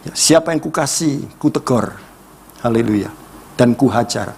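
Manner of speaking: usual speaking voice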